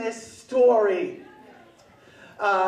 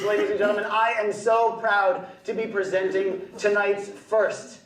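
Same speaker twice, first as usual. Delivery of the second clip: podium speech; 3 semitones lower than usual. Acted. Presenter keeps the podium persona.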